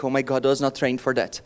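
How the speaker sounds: building from dismay to a loud, alarmed wail; mock panic building to a loud cry; panicked inner thought. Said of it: "I could only think".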